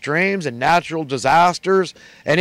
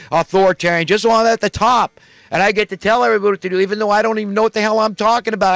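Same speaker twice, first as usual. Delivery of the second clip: mock politician; 3 semitones higher than usual. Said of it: "you're like one of those".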